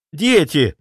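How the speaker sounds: usual speaking voice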